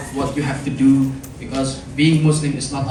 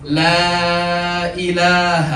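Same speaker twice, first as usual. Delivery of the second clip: over enunciating; 3 semitones higher than usual. Shown as a demonstration. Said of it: "I will say it slowly, and you repeat after me".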